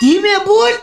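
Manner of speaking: high-pitched squeal; desperate hushing. Acted. Husband tries to quieten his angry wife, desperate hushing. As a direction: hush in a strained high voice.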